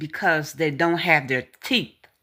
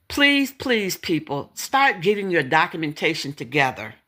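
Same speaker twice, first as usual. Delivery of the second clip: pleading. Real, not acted. Pleading with viewers to act.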